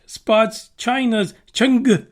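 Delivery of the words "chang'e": Chang'e said as "CHUNG-guh"; careful Chinese pronunciation. Shown as a demonstration. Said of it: "pronunciation down right".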